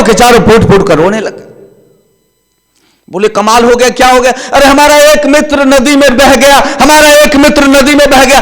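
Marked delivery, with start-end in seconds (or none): 3.3-8.4 higher wailing lament, lightly played; hammed-up grief over a lost friend; mock lament. Friends wail that their friend drowned, mock lament.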